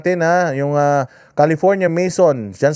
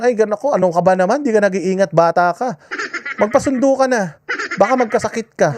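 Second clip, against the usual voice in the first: teacher scolding; 5 semitones higher than usual. Retold or imitated. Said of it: "sasabihin ... teacher ko".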